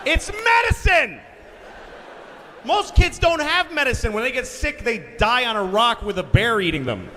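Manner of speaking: very high, incredulous comic yelling; hammed-up parental outrage; outraged rant. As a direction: shout it way up high, appalled at the child. Ranting at daughter rejecting medicine.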